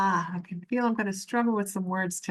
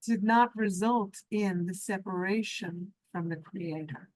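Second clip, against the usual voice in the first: spiritual meditation teaching. Real, not acted. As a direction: let each phrase settle before the next. Leads a meditation session.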